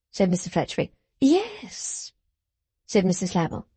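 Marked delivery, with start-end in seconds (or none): 1.2-2.1 high, fluttering yes; a breathy coo of agreement; gushing Mrs Lammle. A narrator's reading. Mrs Lammle answering Fledgeby, high and fluttering.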